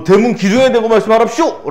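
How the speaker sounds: lightly hammed-up sarcasm; sarcastic jeer. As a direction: jeer at him, playacting. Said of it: "비아냥거리는 부분이 있어".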